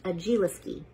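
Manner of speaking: Agiliski with an "ih" before the "ski"; first-try pronunciation. Shown as a demonstration. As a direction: say Agiliski as "uh-JEE-lis-kee". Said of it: "is pronounced".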